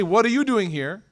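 mildly suspicious, pointed question; serious questioning. Acted. Rivals catching each other at the Kaaba, serious questioning. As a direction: ask it as a serious challenge. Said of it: "this is a very serious question".

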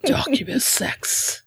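slow whispered gravelly Batman voice; Ash voice. Acted. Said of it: "my attempt at the Ash voice".

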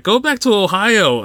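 lightly put-on Canadian accent, drawn out; bad Canadian accent. Retelling a driver yelling at his rival, mock Canadian accent. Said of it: "I'm gonna do a really bad Canadian accent".

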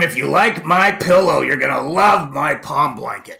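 loud pitchman pushing his pillow; hammy late-night ad pitch, loud; My Pillow guy. Pretend. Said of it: "We are not doing the My Pillow guy impressions".

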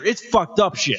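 laughing in disgust; disgusted laughter. Real, not acted.

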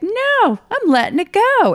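high, loud cry of release; thrilled, reenacted resolve; exultant defiance. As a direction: shout it as you let the brakes go. Retold defiant decision to let go.

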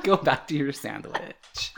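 mock Russian accent, slow. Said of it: "I said sandwich in a Russian accent".

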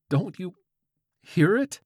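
very high, broken by a pause; hesitant lilting question. A narrator's reading. George questions the old man, high halting lilt. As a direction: halt midway, then lift to a squeak. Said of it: "hesitation in George's voice came out".

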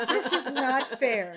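laughing helplessly. Real, not acted. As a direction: say it through laughter. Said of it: "I can't handle this".

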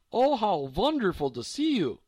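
a hint of an old German lady; delighted old woman. A narrator's reading. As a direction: gush over the visitors.

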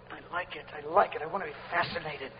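low, softened savouring; intimate delight. Acted. Worshipper telling God he likes being touched, soft delight. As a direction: confide it quietly to God. Voices private delight in prayer.

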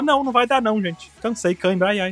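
high whiny excuse, cramping; getting a leg cramp. Pretend. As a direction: moan it out like a tired cramped cloud. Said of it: "Aí o Zeus fala". (reclamando de cãibra, agudo e choroso)

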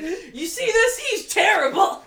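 high, loud, mock outrage; exasperated high voice. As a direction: shriek it like an appalled fan. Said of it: "I was like".

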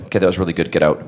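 low, quiet brush-off; grudging dismissal. Retold or imitated. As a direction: imitate an unimpressed casting director. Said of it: "he's already mad at me".

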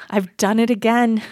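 a rueful laugh through the words; laughing self-quote. Retold or imitated. Recalling her Utah for Congo moment, rueful laughing. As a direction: laugh at your own mistake as you say it.

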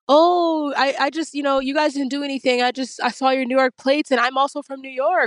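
a hint of a relieved, chummy officer; mild imitation of the cop. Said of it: "and he's like".

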